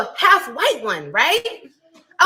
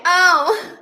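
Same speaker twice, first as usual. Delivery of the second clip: mock whining; 5 semitones higher than usual. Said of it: "Did you guys wanna keep saying".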